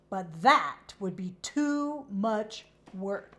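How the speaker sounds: slow, lightly put-on horse voice; lightly voiced horse. Coco complaining to Kate, slow lazy horse voice.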